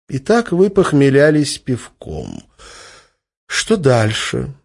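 slow, dry mocking question; sarcastic drawl. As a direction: needle him slowly.

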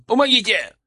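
strangled cry for help. A narrator's reading. Man in the bushes faking trouble to lure his tail, strangled cry. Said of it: "сдавленно крикнул".

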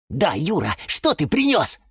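high, inquisitive question; curious. A narrator's reading. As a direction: ask as if peeking into the bag. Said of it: "с любопытством попытались заглянуть".

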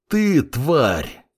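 a furious snarl at the fat man; furious cry. A narrator's reading. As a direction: spit it out with rage. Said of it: "С яростным криком". (яростный крик)

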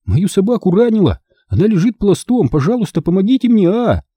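put-on high, pleading little boy; piping, desperate plea for help; thin, high cry. A narrator's reading. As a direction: beg urgently in a thin child's voice. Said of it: "тоненько выкрикнул Бенжи".

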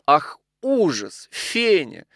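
high, drawn-out calls of alarm; crying out. A narrator's reading. Widow horrified, calling her maid, crying out. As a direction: call the maid in dramatic horror. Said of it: "закричала она".

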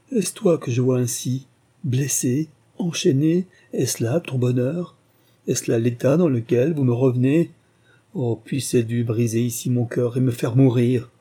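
rising, pleading grief; a father choking on the sight of his son; anguished lament. Acted. Father sees son in chains.

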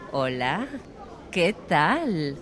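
friendly, cordial greeting. A narrator's reading. Woman greeting Antonio on recognising him, cordial. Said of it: "le respondió ella cordialmente".

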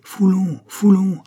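high, loud crowd chant; shouted. A narrator's reading. Youths running behind the carriage, shouting. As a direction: yell the name, pitched right up. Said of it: "Ils criaient".

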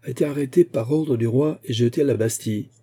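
solemn public announcement, measured; grave et sonore. A narrator's reading. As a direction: proclaim it gravely to the crowd. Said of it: "d'une voix grave et sonore". (d'une voix grave et sonore)

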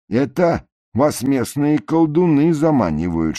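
lightly voiced preachy officer; Перпом увещевает. A narrator's reading. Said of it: "Перпом между ними ходит". (увещевающий голос Перпома)

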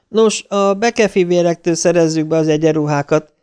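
smooth over the caller's irritation; soothing. A narrator's reading. Security office answering an annoyed new guard, soothingly. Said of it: "felelte Amasz csillapítóan".

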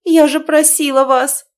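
high, loud reproachful cry; indignant shout; heated outcry. A narrator's reading. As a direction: berate her father in dismay. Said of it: "воскликнула девушка в сердцах".

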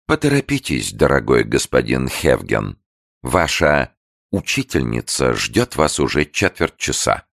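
pause, then say учительница with irony; malicious pause. A narrator's reading. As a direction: sly pause before учительница. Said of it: "От злонамеренной маленькой паузы, которую фрау Мёнкеберг выдержала перед словом «учительница»".

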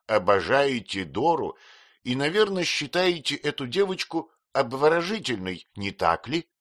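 aunt mocking a kind fool; old aunt voice. A narrator's reading. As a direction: play the aunt, half amused. Aunt questions.

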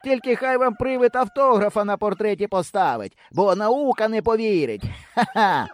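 high jeering shout with a laugh; a boy mocking after the departing pair; mocking call. A narrator's reading. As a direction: laugh at them as they leave. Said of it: "глузливо закричав нам услід".

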